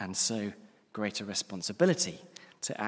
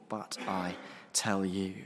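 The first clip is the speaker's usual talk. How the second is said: "But I tell you" slow, stress on "tell"; "But I tell you" said soberly, pressing on "tell"; emphatic, somber quote; 3 semitones lower, 4 dB quieter, slower than usual. Shown as a demonstration. Preacher repeating Jesus' warning, slow and somber. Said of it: "a very deliberately emphatic phrase".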